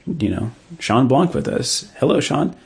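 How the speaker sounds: mock a podcast host introducing the guest; a hint of staged podcast welcome; imitated podcast host. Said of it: "they're like".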